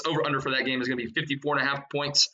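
breathless, rushing through the numbers; out of breath. Real, not acted. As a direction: read it while out of breath. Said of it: "yes, I'm out of breath".

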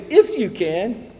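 loud, high, frustrated echo; slow, exasperated disbelief; Jesus. Retold or imitated. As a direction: throw "If you can" back, drawn out and incredulous. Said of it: "you just hear it in Jesus' voice".

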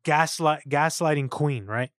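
ordinary delivery

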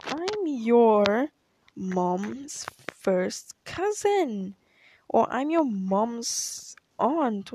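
slow, drawn-out relative claiming kin; slow mock relative. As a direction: stretch it out like a proud great-aunt. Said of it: "she's like".

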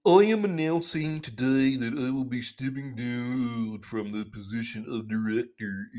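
lightly voiced Fauci impression, official statement tone; Anthony Fauci voice. Podcaster mocking Fauci by reading his statement, lightly put-on voice. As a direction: read it like a stiff bureaucrat announcing his exit. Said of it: "in my best Anthony Fauci voice".

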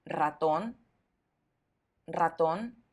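"ratón" with a strong, rolled initial R; teacher's model "ratón", R fully trilled. Shown as a demonstration. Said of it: "siempre será fuerte".

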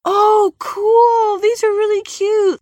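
very high, gushing mock coo; exaggerated high-pitched enthusiasm; mock delight. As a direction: imitate someone obliviously cooing over cute creatures. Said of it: "And they're like".

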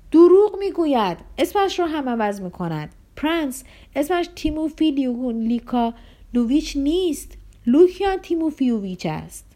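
loud, high accusing shout that eases off; shouting nephew. A narrator's reading. Nephew shouts to the prince that Lebedev lies, loud. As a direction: yell out the lie he's caught. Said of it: "خواهرزاده فریاد زد".

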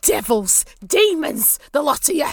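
spat-out accusations; indignant captive hurling insults; cursing captors. Acted. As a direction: denounce the whole lot of them. Bound captive curses the party.

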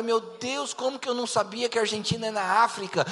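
mock crisis. Embarrassed cell member agonising at home over geography, mock crisis. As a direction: play an overblown inner crisis. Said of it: "ele vai numa crise profunda".

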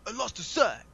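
high-pitched mock confession; Raphael. Imitating a turtle confessing to his master, mock upset. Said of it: "He was confessing to Splinter".

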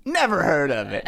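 high, laughing innocent line; innocent Ezra. Retold or imitated. Quoting Ezra's clueless reply to the Inquisitor. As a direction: toss it off cluelessly, half laughing. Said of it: "and he goes".

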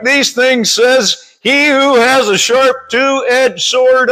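measured read-aloud Bible verse; scripture reading. Real, not acted. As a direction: read it out deliberately to a congregation. Reads scripture aloud to congregation.

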